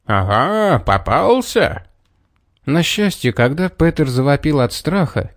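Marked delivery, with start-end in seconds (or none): 0.1-1.9 rising, drawn-out gloat; gleeful exclamation. A narrator's reading. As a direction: crow with triumph. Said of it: "радостно воскликнул".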